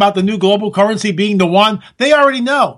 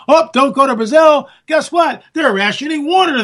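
mock warning; 6 semitones higher than usual. Interrupts own plan to move away.

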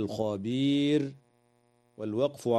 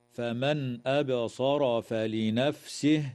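Quranic recitation; slower than usual. Shown as a demonstration. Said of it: "قوله تعالى".

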